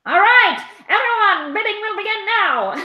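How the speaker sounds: playful mock auction call; auctioneer. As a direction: open the bidding like an auction house. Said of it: "we could read them in the style of, uh, auctioneers".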